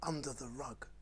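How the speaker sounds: hushed, scared little whisper; mock-scared whisper; spooky whisper. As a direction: whisper it like the monster might hear. Scared of the vug.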